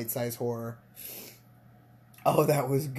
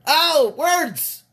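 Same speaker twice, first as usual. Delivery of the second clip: excited squeal; 11 semitones higher, 7 dB louder than usual. Real, not acted. Reacting to a video.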